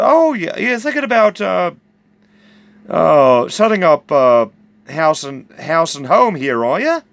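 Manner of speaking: high-pitched, hesitant eager question; retold eagerness, rising sharply at the end. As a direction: ask it keenly, stumbling a little. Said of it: "Kind of eagerly like".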